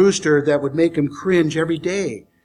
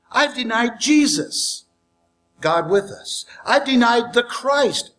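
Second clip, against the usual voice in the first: remorseful Peter; 4 semitones higher than usual. Acted. Peter berating himself after the denials, anguished. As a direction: pour out Peter's regret.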